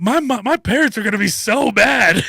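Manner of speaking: high, giggling imitation of a worried boy; laughing kid quote. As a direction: laugh through the boy's panic. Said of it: "they're like".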